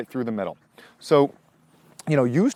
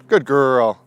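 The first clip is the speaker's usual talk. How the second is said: much louder praise; 9 dB louder than usual. Real, not acted. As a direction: reward her out loud. Praising dog after jump.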